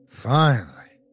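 sighed out in relief; sighing. A narrator's reading. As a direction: let it out on a sigh. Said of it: "sighed the large man".

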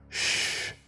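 soft unvoiced shush; whisper. A narrator's reading. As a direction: hush them in a whisper. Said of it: "I heard Brock whisper".

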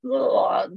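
drawn-out overfull groan; mock groan of heaviness; heavy groan. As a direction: groan as if stuffed with pasta. Imitates heavy feeling after pasta.

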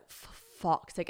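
slow, drawn-out muted curse; resigned exasperation. Retold or imitated. James hears she may walk it, resigned exasperation. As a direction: sigh the curse out slowly in defeat.

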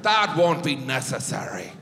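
lightly put-on Donegal Irish voice; a touch of Irish lilt; Irish accent. Donegal locals dismiss using the dryer, light Irish accent. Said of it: "They're like".

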